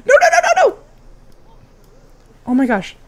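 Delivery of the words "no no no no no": high, loud shrieking nos through laughter; overwhelmed giggling protest; laughing squeal. Real, not acted. Streamer squealing and laughing at the kiss.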